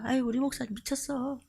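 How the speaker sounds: mock the elders' muttered verdict; a hint of fond exasperated gossip; imitating elders. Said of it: "말 안 해도".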